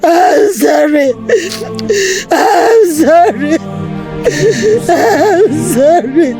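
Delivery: sobbing, begging her dead husband to forgive her, breaking into cries; tearful pleading. Acted. Wife begging her dead husband's body for forgiveness, crying. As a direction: plead through tears, voice cracking into wails.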